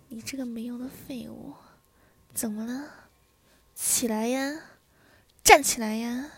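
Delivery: scold, building to a loud command; angry berating. Acted. Wife ordering her husband to get up, angry and building.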